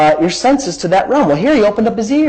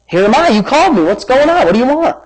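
puzzled questioning; 7 semitones higher than usual. Acted. Boy answers in loose retelling.

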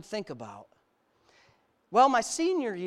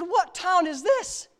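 retold naive question; 10 semitones higher, 5 dB louder, much slower than usual. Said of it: "I said".

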